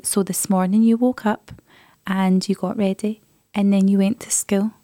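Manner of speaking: slow, deliberately dull bedtime voice; boring bedtime recap. Shown as a demonstration. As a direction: drone through her day to bore her to sleep. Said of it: "so ultimate boring".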